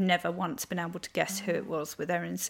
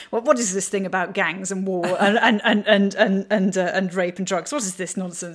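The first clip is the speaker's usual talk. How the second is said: mock indignant American; 5 dB louder than usual. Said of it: "they're like".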